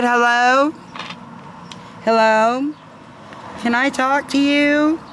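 mild high sweet lady voice; sweet angel voice. Retold or imitated. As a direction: imitate a kind lady calling hello. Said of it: "I heard the sweetest voice".

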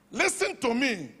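ordinary talk

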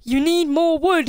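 high mocking sing-song; mocking echo. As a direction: parrot it back mockingly.

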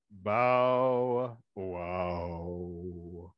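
low bow-wow; dog bark. Acted. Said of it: "And the dog said".

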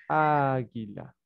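slow "Águila", the first Á drawn out; dictating. Shown as a demonstration. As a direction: stretch out "Águila" as you write it. Sounds word out while writing it.

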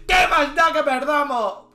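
high, loud, drawn-out shout; defiant cry. Real, not acted. Streamer shrugging off defeat to chat, defiant cry. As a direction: cry it out slowly as if nothing matters. Defiant after losing position.

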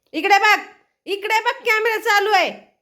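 loud, high call to the pet; calling for attention. Real, not acted. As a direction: get the pet to look, drawing out the end. Calling pet to face the camera. (लक्ष वेधणारी मोठी, चढी हाक)

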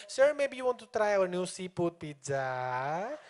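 slow, hushed, syrupy sales pitch; seductive sales tone. Retold or imitated. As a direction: purr the pizza offer like a seduction. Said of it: "What are they trying to sell with this tone?".

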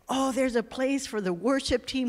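mildly excited quote of a happy find; excited retelling. Retold or imitated. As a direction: retell his excitement with a lift in the voice. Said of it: "he went home excited".

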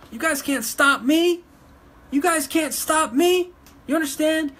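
furious shout at her critics; angry shouting. Real, not acted. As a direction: yell it in their faces. Defiant rant at her critics.

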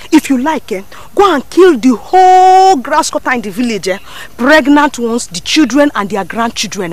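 loud, mocking dismissal of the hunter; scornful rejection. Woman rejecting a hunter's gift, loud and scornful. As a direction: brush him off loudly and with contempt.

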